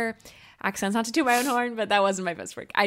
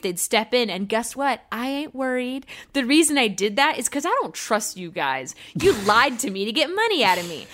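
mock-indignant reviewer reading; angry customer review read; 3 dB louder than usual. Host reading a furious customer review, mock outrage. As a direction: ham up the furious one-star reviewer.

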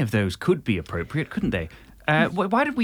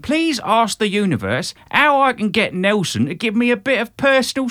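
put-on high, loud South London accent; 3 semitones higher, 3 dB louder than usual. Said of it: "I'll do the South London".

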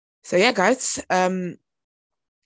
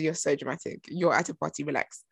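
dismissive aside; 4 semitones lower, 5 dB quieter than usual. Retold or imitated. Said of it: "I said".

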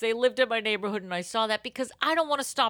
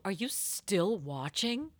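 Netflix prompt voice; 7 dB quieter, slower than usual. Retold or imitated. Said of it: "a friend will go".

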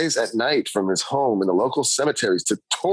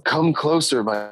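put-on old woman whispering; 3 semitones lower than usual. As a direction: lure them in, chillingly. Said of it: "beckoning them chillingly with words".

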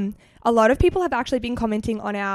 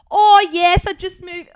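retold British accent; 7 semitones higher, 7 dB louder, slower than usual. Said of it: "And I literally am like".

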